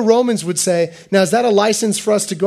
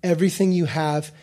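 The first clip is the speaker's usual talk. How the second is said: soft repetition; 5 semitones lower, 7 dB quieter than usual. Shown as a demonstration. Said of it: "repeated softly for emphasis".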